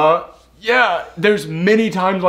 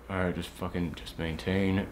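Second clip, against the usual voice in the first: calm self-talk; 9 semitones lower, 15 dB quieter than usual. Retold or imitated. What Sawyer should tell herself.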